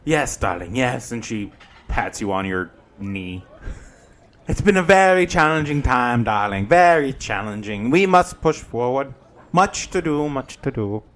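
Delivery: campy drag queen. Acted. GM voices Granny Who.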